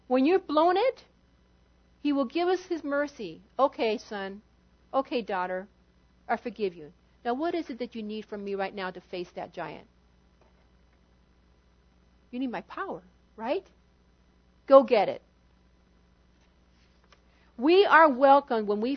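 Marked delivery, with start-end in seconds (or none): 3.6-15.2 put-on softer, lower, gentle father forgiving a child; tender father voice. Preacher voicing God to his son or daughter, soft and tender. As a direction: speak as God, kindly, to a child who blew it.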